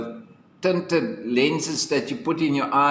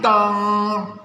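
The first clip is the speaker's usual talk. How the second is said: clock dong; 4 semitones higher than usual. A narrator's reading. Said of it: "said the clock".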